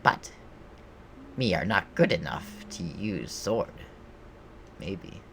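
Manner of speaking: lightly voiced goblin, pitch bouncing about; solemn little goblin declaration; earnest goblin warrior. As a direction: proclaim it like a simple-spoken goblin on a quest.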